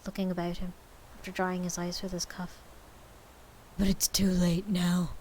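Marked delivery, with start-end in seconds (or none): 3.8-5.1 regretful. A narrator's reading. Scrooge voiced, regretful.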